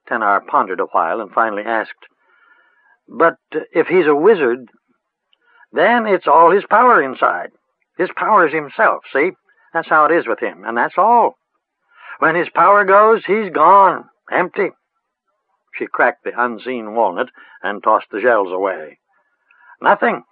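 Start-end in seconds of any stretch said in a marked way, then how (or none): 3.1-14.7 lightly voiced rustic old witch; a hint of a cackly village crone, musing. A narrator's reading. 19.8-20.2 lightly voiced rustic old witch; a hint of a cackly village crone, musing. A narrator's reading.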